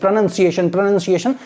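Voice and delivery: "pronunciation" repeated with "nun" in the middle; drilled pronunciation. Shown as a demonstration. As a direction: drill "pronunciation" as pro-nun-see-ay-shun. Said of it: "Say like fifty times". ("pronunciation" को "प्रनन्सिएशन" दोहराएँ)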